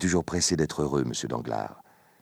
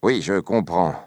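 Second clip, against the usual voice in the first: mildly put-on sympathy, louder; feigned pity; 5 semitones higher, 7 dB louder than usual. A narrator's reading. Danglars pretends to pity Fernand, mock-sympathetic. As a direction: pretend to pity the young man. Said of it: "en feignant de plaindre le jeune homme".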